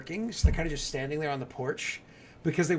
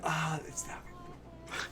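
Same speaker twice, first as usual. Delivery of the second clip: realization; 14 semitones higher, 8 dB quieter, much slower than usual. Retold or imitated.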